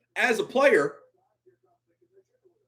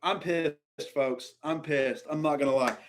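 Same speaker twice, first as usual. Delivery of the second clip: contained anger; 6 semitones lower, 7 dB quieter than usual. Real, not acted. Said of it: "I'm trying to stay calm".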